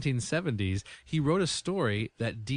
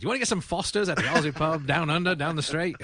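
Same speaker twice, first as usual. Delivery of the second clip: mock eager invite; 6 semitones higher, 3 dB louder than usual. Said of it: "I wouldn't be like".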